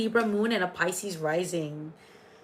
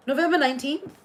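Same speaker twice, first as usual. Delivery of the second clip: November nineteenth? lifted higher into a rising question; surprised echo; 5 semitones higher, faster than usual. Real, not acted. Echoing a viewer's birthday in disbelief, surprised rising question. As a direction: check it back in surprise.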